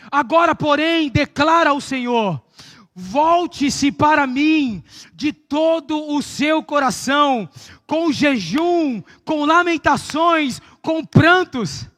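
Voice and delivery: slow, forceful preaching; preaching at full force. Acted. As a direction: thunder the verse out slowly.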